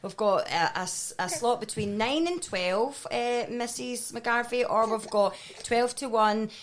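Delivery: slow polite agent voice; lightly voiced call centre agent. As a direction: play the agent slipping in a rude word. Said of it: "How'd you get that into a sentence".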